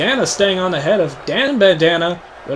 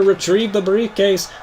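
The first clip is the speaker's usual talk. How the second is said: ordinary talk, nothing marked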